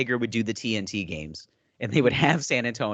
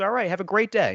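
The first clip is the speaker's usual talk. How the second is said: very high-pitched, mildly sarcastic, dismissive; 10 semitones higher than usual. Retelling how the coach ended the interview: imitating a mildly sarcastic coach. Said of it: "just this mildly sarcastic".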